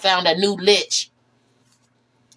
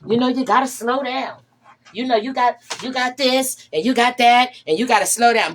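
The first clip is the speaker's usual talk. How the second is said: a touch higher, preachy mock advice; mocking advice givers; 4 semitones higher than usual. Vlogger mocking people who lecture her, lightly higher and preachy. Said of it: "or they say".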